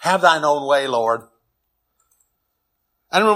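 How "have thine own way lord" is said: lightly intoned hymn line; half-sing the hymn words; quoting a hymn. Retold or imitated. Preacher recalls a hymn, lightly intoned. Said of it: "we sing a song".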